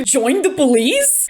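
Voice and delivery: disbelieving "join the police", slowed; incredulous quote. Retold or imitated. Vlogger quoting Caitlyn in disbelief, slow. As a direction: quote the line back in disbelief. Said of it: "hard pivots into".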